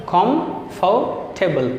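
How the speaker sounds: कॉम्फर्टेबल drawn out slowly, kom-far-te-bal; very slow syllable-split reading of कॉम्फर्टेबल. Shown as a demonstration. Teacher sounding out a three-syllable word slowly. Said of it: "three syllable में तोड़ दिया".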